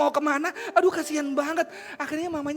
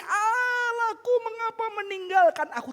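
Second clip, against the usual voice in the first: seruan meratap; 10 semitones higher than usual. Acted. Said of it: "Yesus di atas kayu salib teriak". (ratapan tinggi memanjang)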